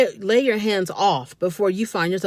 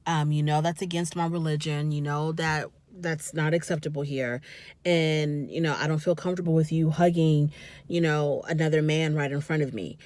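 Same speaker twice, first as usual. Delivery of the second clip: calm firm talk; 5 semitones lower, 4 dB quieter than usual. Retold or imitated. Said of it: "he could have just said".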